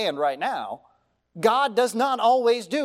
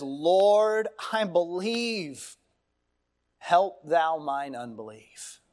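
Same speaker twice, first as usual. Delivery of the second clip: tearful plea; 3 semitones lower, much slower than usual. Retold or imitated. Father begging Jesus to heal his son, tearful and slow. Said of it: "He cries out to Jesus with tears in his eyes".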